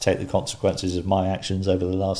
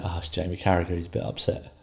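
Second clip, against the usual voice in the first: understated; 7 dB quieter than usual. Retold or imitated. Calm reply to wife.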